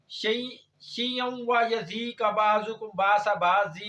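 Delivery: slow, drawn-out Arabic recitation; Quran recitation. Acted. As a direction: recite the verse with lengthened vowels. (ٹھہر ٹھہر کر قرآنی تلاوت)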